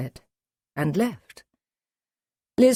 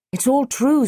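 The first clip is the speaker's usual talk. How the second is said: put-on higher, insistent young woman; eager Liz; 10 semitones higher, 5 dB louder than usual. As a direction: jump in to back him up. Liz backs the doctor up.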